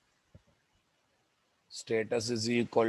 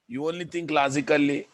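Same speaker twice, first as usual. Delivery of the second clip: sarcastic; 5 semitones higher, 4 dB louder, faster than usual. Real, not acted. Mocking a student's question.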